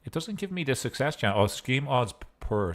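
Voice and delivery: talking with a mouthful of food; chewing through the words; cheeks stuffed full. Real, not acted. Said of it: "Sorry, I have a mouthful of food".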